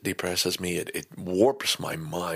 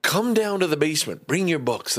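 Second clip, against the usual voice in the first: excited self-pep talk; 8 semitones higher than usual. Retold or imitated. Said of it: "saying to myself".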